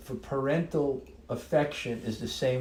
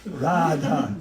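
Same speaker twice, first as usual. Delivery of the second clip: louder mock Russian accent; playful Russian accent, punched out; 5 dB louder than usual. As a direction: put on a joking Russian voice. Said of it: "That's my Russian voice".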